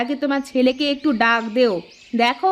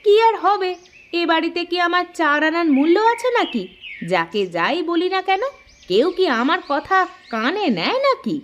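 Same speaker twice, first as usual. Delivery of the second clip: mildly indignant, pitched-up grumbling; higher-pitched wifely grievance; aggrieved complaint; 5 semitones higher than usual. Acted. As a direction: complain like nobody ever listens to you. Wife complains nobody listens to her.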